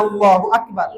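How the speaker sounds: rousing shouted takbir. Real, not acted. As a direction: lead the congregation in a shouted response. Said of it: "আরো জোরে বলেন".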